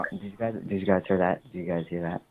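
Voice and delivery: hushed, nervous whisper; whispering while hiding. Real, not acted. Hiding in closet after knocking.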